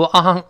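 "昂" as an open "ahng", showing the error; Chinese 昂 sound. Shown as a demonstration. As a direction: say "昂" as the wrong first syllable. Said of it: "确实像中文斗志昂扬的昂了".

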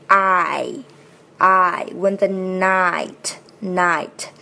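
slow "night" with a full "eye" glide; diphthong demo. Shown as a demonstration. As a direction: stretch the double vowel "I" in "night". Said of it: "这里的元音是双元音I". (“night”双元音拉满)

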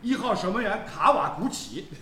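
slow, laughing mock lineup announcement; playful fake announcer reading the lineup; mock stadium announcer. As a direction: announce the keeper like a joking PA man. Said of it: "我帮大家介绍一下日本队出场名单".

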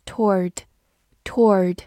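"toward" as one syllable, middle sound glided over; casual American pronunciation. Shown as a demonstration. Teacher shows learners the looser American "toward", run into one syllable. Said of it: "美式发音会更加随意一些".

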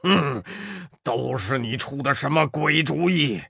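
低沉的妖王埋怨先锋; 妖王不满地数落. Acted. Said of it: "老妖抱怨道". (抱怨的妖王)

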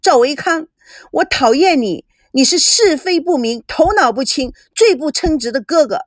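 哭着喊出来，又高又响; tearful outburst. Acted. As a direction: fling it at him while running off. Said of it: "赵美娇掉下了眼泪".

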